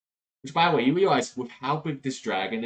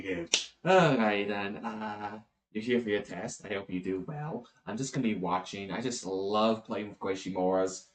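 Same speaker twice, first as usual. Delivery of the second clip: easygoing archangel. Acted. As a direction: chat fondly and casually, voice dropped. Voices the archangel chatting to Slav.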